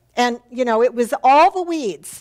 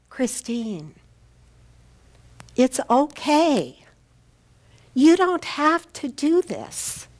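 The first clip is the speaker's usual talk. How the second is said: calm; 3 semitones higher, slower than usual. Retold or imitated. The mentor reassuring her student on decision day, slow and gentle. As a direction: gently release her from the task. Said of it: "she very calmly".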